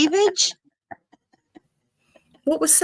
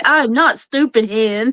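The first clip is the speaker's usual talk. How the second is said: retold retort; 2 semitones higher, 5 dB louder, slower than usual. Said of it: "And I'm like".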